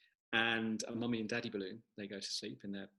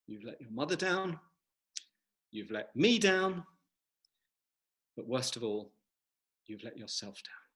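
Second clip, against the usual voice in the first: stern father. Acted. Father balloon scolding son.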